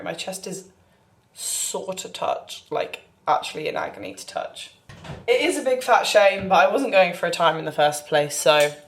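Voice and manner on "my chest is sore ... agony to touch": breathless, strained; winded, pained; shallow breathing. Real, not acted. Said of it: "I'm literally out of breath".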